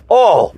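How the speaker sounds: mock reaction to a foul smell; disgusted "oh". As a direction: recoil from a stench with a high, falling "oh". Acting out recoil from stench.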